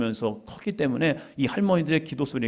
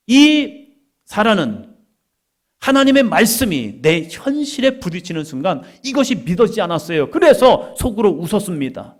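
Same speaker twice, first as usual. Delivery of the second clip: loud, raised-pitch sermon delivery; impassioned preaching; 6 semitones higher, 6 dB louder than usual. Real, not acted. Preacher telling how Sarah doubted God's word, impassioned preaching. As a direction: drive the message out to the congregation.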